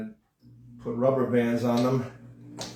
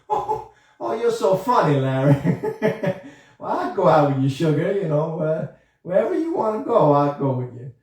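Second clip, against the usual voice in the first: flirty ballerina puppet; 3 dB louder than usual. Acted.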